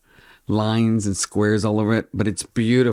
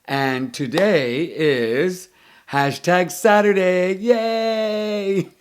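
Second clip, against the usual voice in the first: drawn-out announcement, then a high squeal of joy; dorky excitement; 8 semitones higher, much slower than usual. Real, not acted. Vlogger hyping her theme day to viewers, giddy. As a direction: sell the theme day like a party. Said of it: "I'm such a dork".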